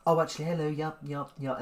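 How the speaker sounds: imitating someone answering a call; phone voice. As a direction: switch into a polite telephone manner. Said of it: "completely different accent".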